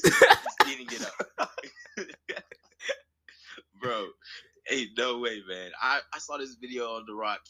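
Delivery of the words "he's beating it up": high, loud comic exclamation; loud, pitched-up outburst before cracking up; joking outcry. Real, not acted. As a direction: yell it out way up high. Joking exclamation, repeated for laughs.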